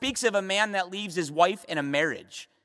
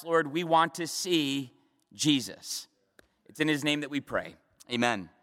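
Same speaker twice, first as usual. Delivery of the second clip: prayer; 3 semitones lower than usual. Real, not acted. Pastor praying aloud before study, hushed and earnest.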